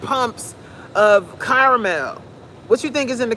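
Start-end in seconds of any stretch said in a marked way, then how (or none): 0.0-2.2 mock innocent excuse. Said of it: "that coffee you have in the morning".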